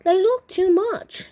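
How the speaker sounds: high, loud storybook alarm; acted worried outburst; alarmed exclamation. A narrator's reading. Father alarmed at the change.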